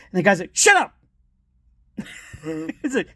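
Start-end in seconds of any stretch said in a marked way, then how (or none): 0.6-1.0 sudden high mock yell; rude retort. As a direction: imitate cutting someone off rudely. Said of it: "Wow, that was rude".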